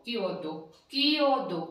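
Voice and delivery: क्योदो then कियोदो, ky sound drawn slowly; teaching pronunciation. Shown as a demonstration. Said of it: "की की ध्वनि आ गई". (क्योदो का धीमा साफ उच्चारण)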